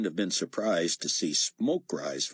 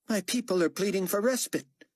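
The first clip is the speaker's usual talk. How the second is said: Nikolai voice; 13 semitones higher than usual. Acted. Nikolai pleading.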